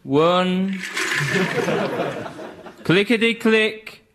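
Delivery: bingo calls, lightly voiced; bingo caller. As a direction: call out numbers like a bingo hall. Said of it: "eyes down for a full house".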